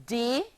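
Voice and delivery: "de-si-did" in three separate beats; three clear beats of "de-si-did"; syllable by syllable. Shown as a demonstration. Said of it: "forming three syllables".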